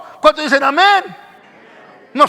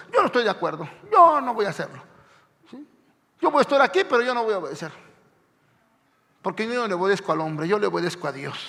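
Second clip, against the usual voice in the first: stubborn churchgoer; 5 semitones lower, 6 dB quieter, much faster than usual. Retold or imitated. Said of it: "como diciendo".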